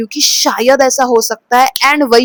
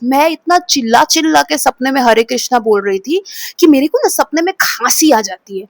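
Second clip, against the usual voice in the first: usual speaking voice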